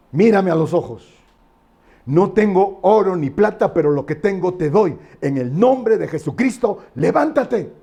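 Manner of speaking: preacher's commanding apostle, rising to the final word; acted healing command. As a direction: declare it with authority, building toward the order. Acted apostle commanding the lame man.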